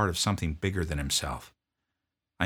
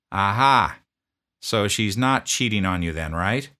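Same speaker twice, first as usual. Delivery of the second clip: drill sergeant; 3 semitones higher, 7 dB louder than usual. Retold or imitated. Drill sergeant confronting a sniffling private, loud bark.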